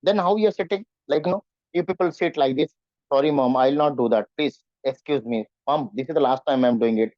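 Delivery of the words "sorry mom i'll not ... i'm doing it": apologetic. Shown as a demonstration. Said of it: "you are trying to become apologetic".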